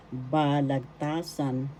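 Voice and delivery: slow "Balagtasan", ba-lag-TA-san; third-syllable stress. Shown as a demonstration. Teacher links word to the poet's name, slow stressed "Balagtasan". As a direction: draw out "ta" in "Balagtasan". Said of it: "The third syllable is where the accent is".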